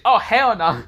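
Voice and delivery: high, loud outraged cry; outraged shout. Acted. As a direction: yell it in disbelief. Guys react in shock.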